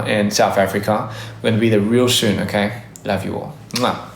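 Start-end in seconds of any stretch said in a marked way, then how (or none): 3.0-4.1 soft goodbye. Real, not acted. Soft sign-off kiss.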